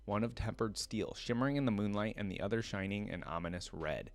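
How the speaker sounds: steady lore-reading voice, measured and even; story narration. Acted. Streamer reads League lore to viewers, storyteller voice. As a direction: read it like the lore entry.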